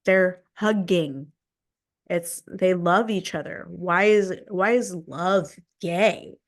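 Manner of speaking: retold angry challenge to a friend; heated confrontation. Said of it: "I confronted him".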